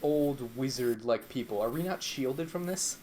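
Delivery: muffled, boomy mic sound. Real, not acted. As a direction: speak too close into the mic. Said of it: "You kinda sounded muffled there".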